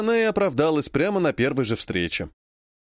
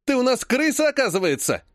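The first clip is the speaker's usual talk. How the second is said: high sneering jab; spiteful jeer; 10 semitones higher than usual. Acted. Vlad jeers at Ilya as a rat, spiteful. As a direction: spit out the insult.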